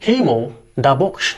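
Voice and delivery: very slow, word by word; slow dictation. Shown as a demonstration. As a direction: spell the example out slowly for students. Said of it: "अब देखो".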